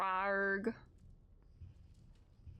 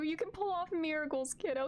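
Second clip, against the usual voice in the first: ordinary talk, nothing marked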